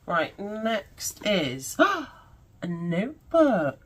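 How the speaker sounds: breathless excitement. Real, not acted. Unboxing a longed-for notebook.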